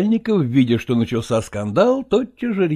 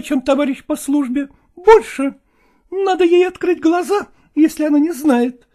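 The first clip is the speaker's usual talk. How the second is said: higher, trembling defiant reply; mistress's voice; 4 dB louder than usual. Acted. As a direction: answer back with quivering lips. Mistress asserts herself.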